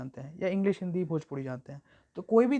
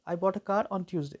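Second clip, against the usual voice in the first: "a" kept weak before a stressed "car"; slowly, hardly stress the "a"; unstressed article; much slower than usual. Shown as a demonstration. Teacher showing that the article takes no stress, light "a". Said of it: "अ को उतना हम लोग stress नहीं दिए".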